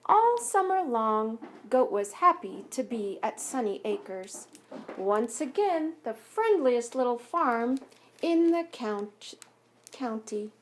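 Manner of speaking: put-on gentle read-aloud voice for children; story narration. A narrator's reading. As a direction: read it like a picture book at story time. Reads picture book aloud.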